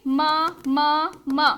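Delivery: म repeated slowly with a pause after each; separate, stuttered repeats of म; demonstrated sound repetition. Retold or imitated. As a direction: imitate being stuck on म. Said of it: "उसी ध्वनि को बार बार बोले".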